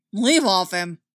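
loud warning growl. A narrator's reading. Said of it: "Zeb growled".

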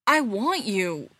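slow, stretched plea; sort of desperate. A narrator's reading. Spencer pleading with his ex, sort of desperately. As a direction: draw it out with a touch of desperation. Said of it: "sort of desperately".

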